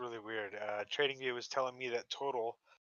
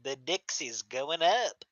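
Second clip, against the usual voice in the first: repeating it slower and louder; 2 semitones higher, 7 dB louder, much slower than usual. Real, not acted. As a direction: say it again, slow and clear. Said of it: "Do what?".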